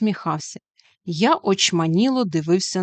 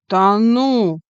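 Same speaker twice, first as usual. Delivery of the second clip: astonished, a little louder; can't believe what he just heard; amazed; 5 dB louder than usual. A narrator's reading. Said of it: "промовив вражений Тимко".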